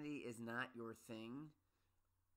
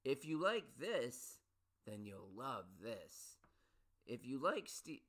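mock ad pitch; 5 dB louder, slower than usual. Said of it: "books that say".

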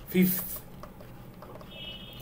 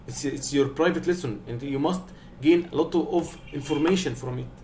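slow, deliberate lecture to the class; slow scolding; 3 dB quieter, much slower than usual. Shown as a demonstration. Teacher telling silent students to engage. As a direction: lay it down slowly and firmly. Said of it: "teacher lectures absent students".

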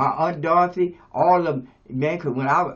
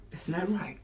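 "That's not right." said softer, falling on "right"; soft final verdict; 3 semitones higher, 7 dB quieter than usual. Shown as a demonstration. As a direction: settle it quietly with a falling "right".

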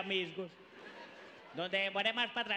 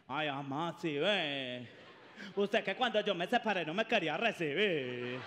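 much lower, sulky complaint; whiny daughter; 6 semitones lower than usual. Acted. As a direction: sulk at mom. Daughter reproaching mom.

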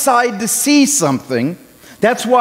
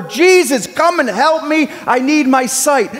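higher, raised call for help; a mildly louder cry to Jesus; louder plea; 6 semitones higher than usual. Retold or imitated. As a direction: push the plea up a notch. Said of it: "he got a little louder".

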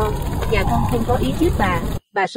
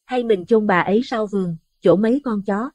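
higher, anxious woman's voice; trembling, fearful wife; 7 semitones higher than usual. A narrator's reading. Wife to husband at night, frightened higher voice. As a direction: plead timidly, worried about the body. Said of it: "run rẩy lên tiếng".

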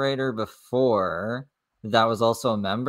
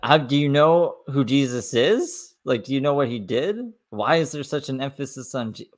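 1 sarcastic disbelief; 4 semitones higher than usual. Real, not acted. Sarcastic questions to absent woman.

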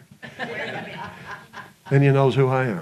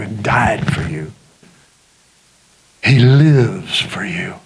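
whisper; 9 semitones lower, slower than usual. Acted. Preacher drops to whisper.

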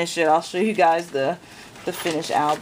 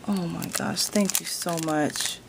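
ordinary delivery

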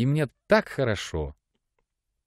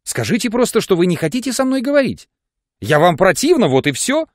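сквозь слёзы; 9 semitones higher, 5 dB louder than usual. A narrator's reading. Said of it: "проговорила сквозь слёзы".

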